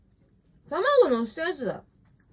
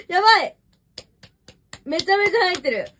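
loud, higher excited outburst; real excited disbelief, said loud; loud amazed exclaiming; 5 semitones higher, 9 dB louder than usual. Real, not acted. Shocked at own full belly.

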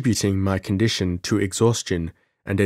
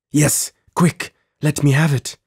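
high, loud, urgent demand; fierce exclamation; 6 semitones higher, 5 dB louder than usual. A narrator's reading. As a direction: demand it fiercely, pitch and volume up. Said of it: "exclaimed Zuleika fiercely".

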